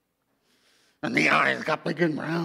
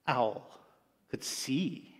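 hushed storyteller whisper; whispered aside, telling the children the owl peeked; slower than usual. A narrator's reading. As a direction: drop to a secret whisper as if letting listeners in. Narrator reveals owl's secret peek.

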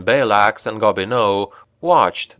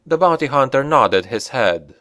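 ordinary delivery, nothing marked

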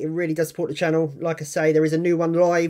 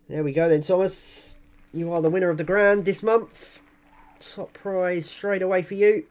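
hyped giveaway announcement; 3 semitones higher than usual. Real, not acted. Announcing the grand prize winner.

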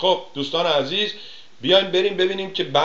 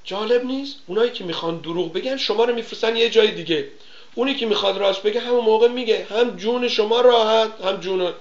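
higher, fast and worked up; excited rant; 9 semitones higher than usual. Real, not acted. Host ranting to listeners about evasive answers, higher and fast. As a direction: rattle it off, fired up.

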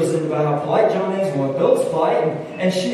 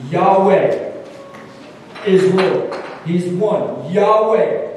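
proclaiming; 3 dB louder, much slower than usual. Acted. Preacher proclaims the name.

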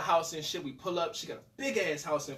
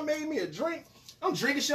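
ordinary talk, nothing marked

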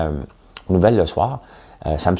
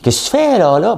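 put-on high sing-song Saguenay accent with a laugh; 14 semitones higher, 5 dB louder than usual. Mocking Saguenay speakers, high sing-song Saguenay accent. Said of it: "Vous parlez pas, vous chantez".

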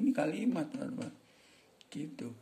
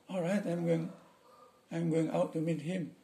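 a lightly voiced native English servant, pitched higher; native English speaker; 7 semitones higher than usual. Shown as a demonstration. A teacher showing how a native English servant answers his boss. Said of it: "orang bule ngomong pakai bahasa".

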